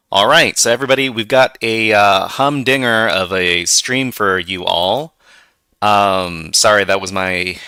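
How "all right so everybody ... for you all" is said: lightly done Southern American twang; Southern accent. Acted. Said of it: "attempt at doing some sort of southern accent".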